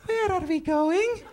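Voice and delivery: put-on high, slow East Indian accent; East Indian woman. East Indian woman turning to a stranger, high, slow accented question. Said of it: "little East Indian woman".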